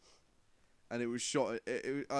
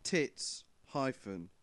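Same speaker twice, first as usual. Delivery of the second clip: reading out notes; 4 semitones lower than usual. Shown as a demonstration. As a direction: read the note word for word, deadpan. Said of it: "three words left on my pad".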